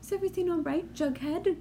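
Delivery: a hammed-up, self-admittedly bad British accent. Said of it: "I love your British accent".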